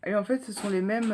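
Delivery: talking while chewing gum. Real, not acted. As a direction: speak around a chewing gum. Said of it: "oui désolé j'ai un chewing-gum".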